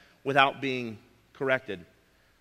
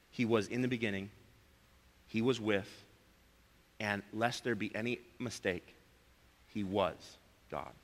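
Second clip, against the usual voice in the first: hushed reverent climax; 7 semitones lower, 11 dB quieter than usual. Real, not acted. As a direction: drop to a hush, slowing on he was God. Hushed climax of John's prelude.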